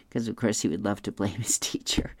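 a confiding whisper to listeners; whispered aside. Real, not acted. Reader whispering an aside about Curtis to listeners, whispered.

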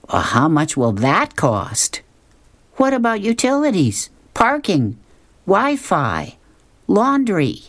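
put-on high, quizzical girl voice rattling off questions; a fussy teen listing every worry; Tara's voice. Tara grilling Luann about costs, high and quizzical. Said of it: "And Tara says".

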